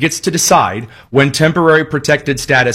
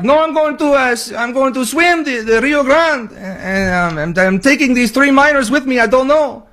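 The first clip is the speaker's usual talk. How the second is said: high, put-on voice of a clueless border crosser; mocking migrant voice; 8 semitones higher than usual. Host mocking migrants who swim the Rio Grande, high put-on voice. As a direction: play it dim and carefree, pitched way up. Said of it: "people are like".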